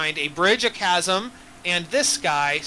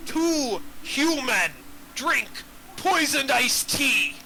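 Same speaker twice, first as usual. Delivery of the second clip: slow, dim troll riddle voice; dopey cartoon troll; 5 semitones higher, much slower than usual. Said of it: "the troll says".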